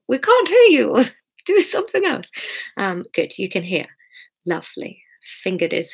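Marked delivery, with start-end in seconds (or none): 0.1-2.3 high mock heckling from the audience; imagined viewer complaint. Reader imagines listeners complaining about sound, mock high-pitched heckle. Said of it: "in case anybody's going".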